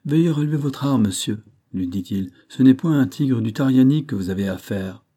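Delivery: grand, pretentious manner; pompous tone. Acted. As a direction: play it self-important and emphatic. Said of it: "d'un ton assez prétentieux".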